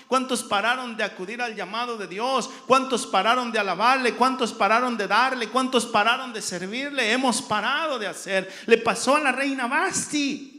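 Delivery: loud, driving sermon delivery; full-force preaching. Real, not acted. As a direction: preach it out hard, phrase on phrase.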